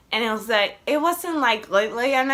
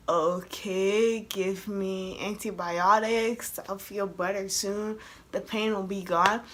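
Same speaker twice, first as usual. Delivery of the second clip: slow, subdued, matter-of-fact; acted unfazed reaction; 3 semitones lower, 5 dB quieter, slower than usual. Patient answering the doctor's diagnosis, acted as unfazed. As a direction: shrug off the news slowly and quietly. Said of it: "my face was just like".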